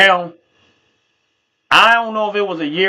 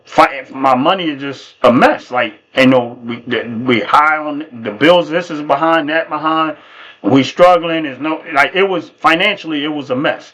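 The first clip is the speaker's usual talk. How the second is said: a touch of the mother, lower and slower; lightly voiced mom, weighed down by bills; worried mom; 4 semitones lower than usual. Mother confesses money troubles.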